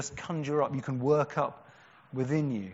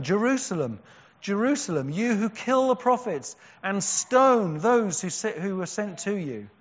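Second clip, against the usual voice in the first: loud lament; 5 semitones higher, 5 dB louder than usual. Acted. Jesus lamenting over Jerusalem.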